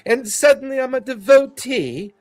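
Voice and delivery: a lightly voiced condescending fey noble; polite, fussy and faintly hesitant officialdom; haughty fey official. GM as fey security chief greeting the party, lightly haughty. GM voices Sir Thorned Shade.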